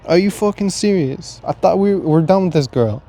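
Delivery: fed-up rant at your heart; exasperated. Retold or imitated. Arguing with his heart.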